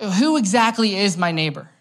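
lightly acted stalling in a debate; evasive challenge. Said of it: "to avoid the issue that's actually on the table".

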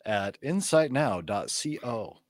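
mock radio announcer with swooping intonation; official radio voice. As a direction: read the plug like an official radio host. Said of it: "That was my official radio voice".

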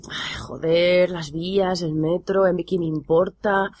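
muttered dithering, then rising curses; cursing under breath. Retold or imitated. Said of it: "Kei se debate".

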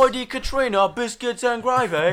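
loud, high hammed-up Southern accent. Doing a Southern accent for the podcast, loud and hammy. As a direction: belt it like a Southern caricature. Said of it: "Southern accent".

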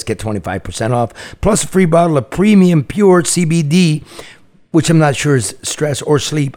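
lively sponsor read with punchy questions. Acted. Host pitches Next Evo to listeners, upbeat ad read. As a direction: sell the product to listeners.

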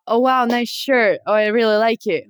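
livelier compliment with rising and falling tune; enthusiastic compliment. Shown as a demonstration. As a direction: say it like you really mean it. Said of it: "through text it would be like".

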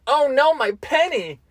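high, slow "Oh no, my penny!"; heightened voice. Shown as a demonstration. Interrupting a regular conversation, high slow mock dismay. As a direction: raise the voice high and drag it out. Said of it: "heightening your voice and going".

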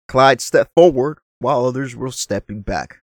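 put-on a spontaneous half-accent on the quote; a lightly put-on accent voicing Jimmy's words. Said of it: "I don't know why I did that accent".

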